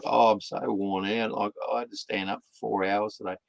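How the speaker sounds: put-on quick, soft, whining teen complaint; mock whiny kids. Kids complaining to dad, mock whining and fast. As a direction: whinge like a worn-out teenager. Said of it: "they like".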